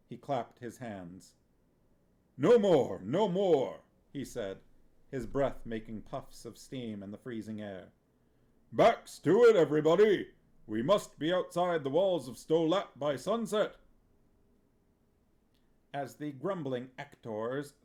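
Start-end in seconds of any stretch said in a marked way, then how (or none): 2.4-13.8 very loud, high bellow; the actor manager ordering the company off, loud; rallying call. A narrator's reading. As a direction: rouse the troupe to move. Vitoller rallies actors.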